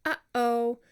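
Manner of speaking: "Uh-oh" with a sharp throat closure between uh and oh; glottal uh-oh demo. Shown as a demonstration. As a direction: demonstrate the glottal catch in "Uh-oh". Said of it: "Say it".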